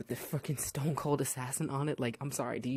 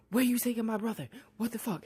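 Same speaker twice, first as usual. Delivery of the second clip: high-pitched imitated outrage; lightly acted indignant challenge; mock indignant protest; 7 semitones higher than usual. Sister protests brother's arrest.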